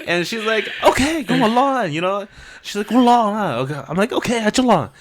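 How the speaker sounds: high giggly retelling; laughing through it. Real, not acted. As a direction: still cracking up telling it.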